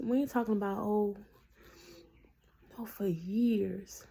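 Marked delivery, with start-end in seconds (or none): 2.8-4.0 drawn out, voiceless and slow; slow emphatic whisper. Retold or imitated. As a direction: let the words fall away into a whisper. Stressing years of disobedience.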